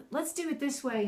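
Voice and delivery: encouraging teacher tone. Shown as a demonstration. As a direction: coax gently with an encouraging lift. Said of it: "I do it more encouraging".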